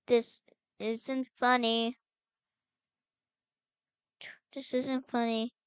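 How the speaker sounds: loud, play-acted scolding; stern warning. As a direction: tell off a hiding sister. Warns hiding sister.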